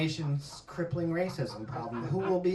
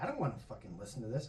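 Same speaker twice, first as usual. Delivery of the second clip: annoyed wife; 9 semitones lower, 10 dB quieter, much faster than usual. Retold or imitated. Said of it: "she's like".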